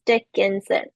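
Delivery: "Dickinson" with all three syllables weighted alike; even stress. Shown as a demonstration. Lecturer showing students unstressed syllables, "Dickinson" evenly weighted. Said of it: "isn't really emphasizing one over the other".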